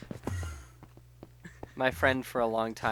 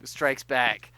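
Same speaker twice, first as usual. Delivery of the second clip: dramatic title; 2 semitones higher, 8 dB louder, slower than usual. Shown as a demonstration. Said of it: "there's one that's, like".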